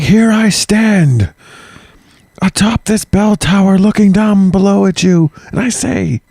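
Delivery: high, slow hammy villain speech. Retold or imitated. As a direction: ham up a grand evil villain. Mock villain speech atop tower.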